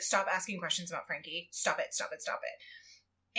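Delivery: low, hushed angry insistence; retold angry snap. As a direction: imitate snapping, voice dropping into a mutter. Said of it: "he snaps".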